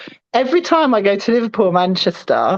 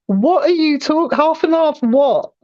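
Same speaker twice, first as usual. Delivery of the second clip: higher, mock-baffled reply; imagined bafflement; 5 semitones higher than usual. Southern takeaway staff to her asking half and half, mock bafflement. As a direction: act out a confused server, slowing on the repeat.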